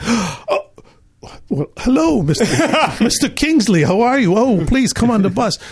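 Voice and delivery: high, breathless starstruck gushing; starstruck fawning. Retold or imitated. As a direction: gush like awestruck schoolboys meeting royalty.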